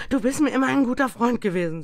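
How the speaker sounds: höher, lauter und schnell; ängstlich, beschwichtigend. A narrator's reading. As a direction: schmeichle dem Geist nervös. Scrooge ängstlich. (Scrooge schmeichelt ängstlich dem Geist)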